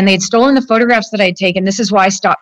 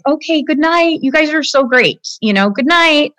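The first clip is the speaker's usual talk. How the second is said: higher, bright pretend goodbye to hide the fear; fake cheerful goodnight; 4 semitones higher than usual. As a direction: sound breezy while you escape. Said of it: "I'm acting like".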